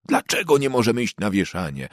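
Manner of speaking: a lightly played sulky bellow; mild mock roar. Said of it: "ryknął chłopak grubym głosem". (chłopiec ryczy do matki, lekko zagrane)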